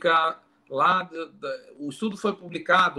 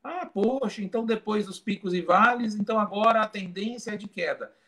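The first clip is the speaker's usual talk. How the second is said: imitando o público otimista; 6 semitones higher than usual. Retold or imitated. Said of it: "todo mundo ia pensar assim".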